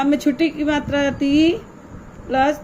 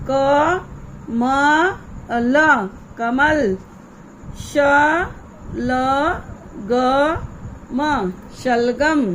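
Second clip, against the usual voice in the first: slow, letter by letter, then the blended word; sounding out syllables; much slower than usual. Shown as a demonstration. Teacher sounds out each letter for young pupils, slowly. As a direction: spell it out slowly for children. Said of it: "teacher sounds out syllables".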